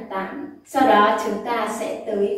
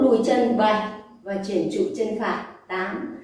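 dance teacher counting beats; counting workout reps. Shown as a demonstration. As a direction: call the count out steadily. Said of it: "đếm nhịp cùng mình này".

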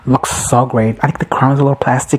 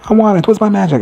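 demanding; 9 semitones higher than usual. Retold or imitated. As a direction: insist on the prize like a greedy witch. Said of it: "She's like".

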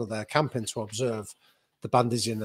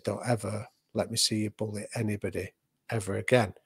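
softer retelling of a stern warning; quiet warning; 3 semitones lower, 6 dB quieter than usual. Retold or imitated. Dad warning his son off bullying, quietly. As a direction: keep the telling-off hushed and controlled. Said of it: "he just quietly said to me".

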